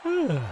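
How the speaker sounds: yawn. Real, not acted. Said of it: "I'm gonna yawn now".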